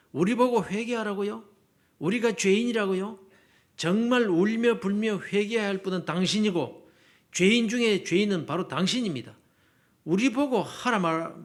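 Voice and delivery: 하나님께 대드는 격앙된 기도; 목소리를 조금 높여 억울한 듯 따지기; 따지는 항의. Acted. 학생의 항의 기도를 재연. (원망 섞인 항변조)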